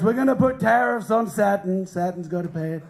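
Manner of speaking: light comic presidential impression; Donald Trump. Comic playing a president taxing planets, light impression. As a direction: lightly mimic a grumbling politician. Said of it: "Starts implementing tariffs".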